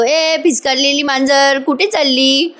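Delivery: slow teasing line with laughter breaking in; laughing tease. Retold or imitated. Parth mocking Kavya as she leaves the room, laughing. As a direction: laugh through the taunt ए भिस्कारलेली मांजर. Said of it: "हसायला लागतो आणि म्हणतो".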